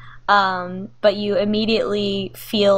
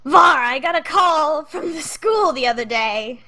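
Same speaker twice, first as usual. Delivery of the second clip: raised, put-on dad voice; Jason Statham; 6 semitones higher than usual. Dad telling daughter about a call from school, strained celebrity impression. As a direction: play the dad in a badly faked celebrity voice. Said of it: "try to do a Jason Statham voice".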